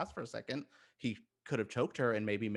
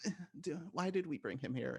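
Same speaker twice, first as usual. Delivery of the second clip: grumbling Deathstroke; 6 semitones higher, 5 dB quieter than usual. Retold or imitated. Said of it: "the Deathstroke being like".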